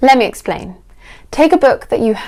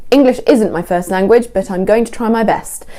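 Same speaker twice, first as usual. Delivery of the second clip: assured statement, totally in control; confident, unapologetic; 5 dB louder than usual. Shown as a demonstration. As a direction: own it, no apology in the voice. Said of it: "It's unapologetic, it's confident".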